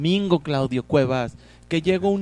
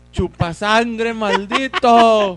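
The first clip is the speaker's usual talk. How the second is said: angry shout; 5 semitones higher, 8 dB louder, much slower than usual. Real, not acted. Swatting at a mosquito.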